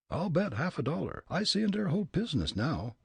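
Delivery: high, thick German-immigrant voice; German accent. Acted. Fritz muttering to himself in German accent. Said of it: "he muttered with a chuckle".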